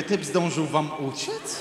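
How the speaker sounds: slow, dopey question; dim-witted slow question. Retold or imitated. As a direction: ask it slowly like an idiot. Naive question, "jak debil. (powoli, jak debil, pytanie)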